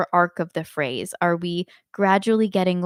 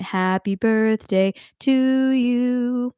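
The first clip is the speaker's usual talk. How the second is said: badly phrased; 3 semitones higher, much slower than usual. Shown as a demonstration. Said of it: "That would sound very bad if I went".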